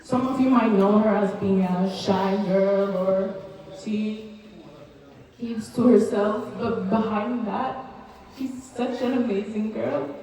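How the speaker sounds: ordinary talk, nothing marked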